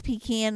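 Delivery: pecan said as pee-KAN, open flat a; the sister's pecan: pee-KAN. Retold or imitated. Quoting her sister's version: pecan as pee-KAN. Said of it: "my sister says".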